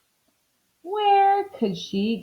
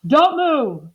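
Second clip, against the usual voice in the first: higher, urgent command; shouted warning; 6 semitones higher, 4 dB louder than usual. A narrator's reading. Mister Watson as the bed sinks, shouted warning. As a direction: call it out as an order. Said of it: "shouted Mister Watson".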